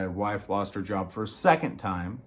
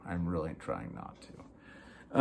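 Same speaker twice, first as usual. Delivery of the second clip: holding back; 7 semitones lower, 11 dB quieter, slower than usual. Real, not acted. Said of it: "I'm getting a little heated".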